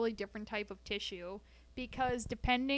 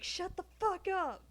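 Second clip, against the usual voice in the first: mock outburst; 4 semitones higher than usual. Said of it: "and I'm like".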